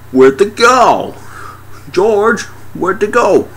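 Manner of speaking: high, comic creature voice; drawn-out high calling; searching alien tentacle. Acted. Tentacle hunting people, high mock-creature voice.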